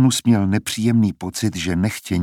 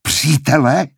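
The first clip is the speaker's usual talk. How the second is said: high, raised, disbelieving question; incredulous shout; 6 semitones higher, 4 dB louder, slower than usual. A narrator's reading. Coriolanus echoes his friend's word, shouting in disbelief. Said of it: "že křičí".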